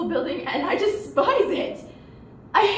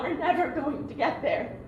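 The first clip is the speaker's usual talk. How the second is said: softer, sinking, laughing through it; resigned; 2 semitones lower, 5 dB quieter than usual. Acted. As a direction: let "never" sink away, softer, defeated. Despair fading after the outcry.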